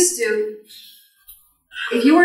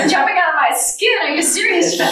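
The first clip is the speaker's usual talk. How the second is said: laughing retort; 8 semitones higher, 4 dB louder than usual. Retold or imitated. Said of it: "I felt like saying".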